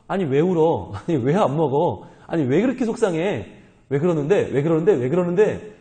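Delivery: lightly mocked nagging husband. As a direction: pester her with clueless repeated questions. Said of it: "더 속을 긁는 거죠". (속을 긁듯 캐묻는 남편 흉내)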